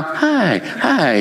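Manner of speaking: imitated high-pitched social greeting; tone going up. Imitating colleague who turns on a smile for visitors, high-toned. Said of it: "the tone would go up".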